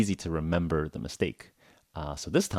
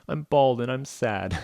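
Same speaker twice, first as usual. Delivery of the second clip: slow, higher mock-gloomy voice; mock sad; 6 semitones higher, slower than usual. Bald man in the before picture, slow mock-sad voice. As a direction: put on a drawn-out, comic sadness. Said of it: "he looks sad".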